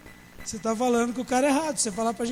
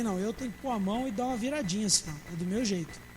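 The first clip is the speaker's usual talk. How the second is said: mock fussy member; 3 semitones lower, 7 dB quieter than usual. Mocking a fussy perfectionist churchgoer.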